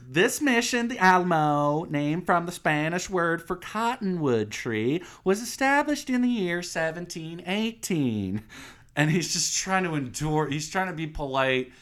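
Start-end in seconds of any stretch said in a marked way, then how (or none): 0.1-8.4 higher, chirpy tour guide spiel; fake tour guide. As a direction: recite it like a bored guide. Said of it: "fake-ass tour guide".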